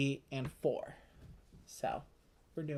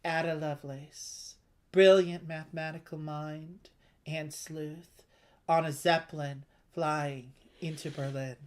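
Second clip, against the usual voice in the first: scene setting; 3 dB louder than usual. Acted. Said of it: "picture it".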